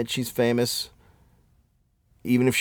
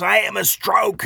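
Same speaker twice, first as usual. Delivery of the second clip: high, drawn-out mock declaration; mock the commercial's yelling without much volume; slow, high-pitched imitation of a yeller; imitated yelling; 8 semitones higher, slower than usual. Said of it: "and she fucking yells shit".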